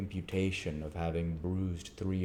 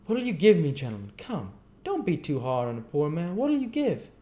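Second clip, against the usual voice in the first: much higher, loud rough-voiced plea; wheedling chimney sweep; 10 semitones higher, 6 dB louder than usual. Gamfield begs the board for more money, high and wheedling. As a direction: coax the board like a poor working man. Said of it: "he returned to the table and said".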